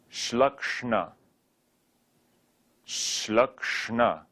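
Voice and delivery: Shlakshna with curled-tongue second sh and n; plain first sh in Shlakshna, then curl the tongue for "kshna"; retroflex Shlakshna. Shown as a demonstration. Teacher practising retroflex sounds, careful Shlakshna. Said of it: "second sh and n are retroflex".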